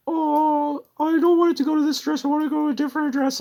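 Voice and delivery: very high mocking falsetto; exaggerated high-pitched mimicry of a buyer; whiny buyer imitation. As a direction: squeak it out fast as a pestering customer.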